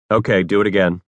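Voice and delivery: usual speaking voice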